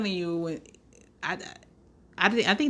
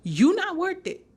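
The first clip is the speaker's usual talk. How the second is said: dismissive; 10 semitones higher than usual. Retold or imitated. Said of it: "I was like".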